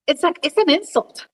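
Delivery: echoey, distant room sound; bottom of a well echo. Real, not acted. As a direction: sounds far off, echoing. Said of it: "you sound like you're at the bottom of a well".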